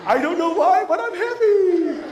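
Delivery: high, loud cartoon glee, drawn out; giddy camel whooping with happiness; overjoyed camel. Speaker voices the even happier camel in the picture, giddy high squeal. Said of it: "And the camel's even happier".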